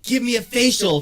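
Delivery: high, loud mock sultry line. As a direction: ham up a seductive request. Mock quote of the porn star.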